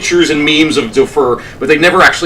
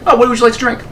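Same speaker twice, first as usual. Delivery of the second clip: mock-innocent casual offer, slightly higher; casual, unbothered; 4 semitones higher, much faster than usual. Captain offering a drink after the screaming, breezily casual. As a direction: toss it off as if nothing happened. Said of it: "casual as if nothing had ever happened".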